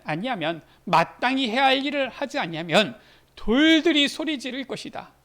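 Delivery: ordinary delivery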